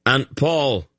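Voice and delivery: high urgent call across the field; yelling. A narrator's reading. Geryon to Aunt Paul in battle, yelling. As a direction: yell for her over the fighting. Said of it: "Geryon yelled".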